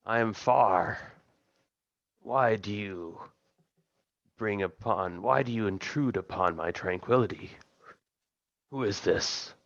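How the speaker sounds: lightly voiced imperious god with long pauses; otherworldly patron. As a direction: draw the words out like a disturbed deity. Game master voices summoned patron.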